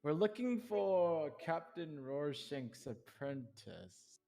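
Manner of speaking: slow, deliberate hero voice; a hint of a put-on hero voice; character voice. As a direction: put on a gruff questioning voice, slowly. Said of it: "I get ready for my voice".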